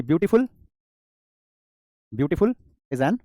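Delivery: very slow, each word held; slow dictation. Shown as a demonstration. Teacher dictating the new sentence, very slow. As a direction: lay the words down one by one. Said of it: "teacher dictates example sentence".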